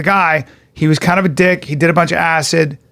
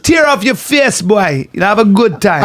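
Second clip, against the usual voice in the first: mock Jamaican accent. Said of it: "they're Jamaican".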